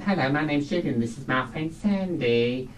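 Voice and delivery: lightly voiced camp introduction; a hint of an actor's stage introduction; Hugh Paddock. Imitating his comedy partner introducing the pair, lightly impersonated. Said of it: "quite a good impersonation of him".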